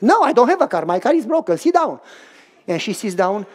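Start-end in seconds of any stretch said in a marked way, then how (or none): 0.0-2.0 urgent excitement. Acted. Urging wife to sit.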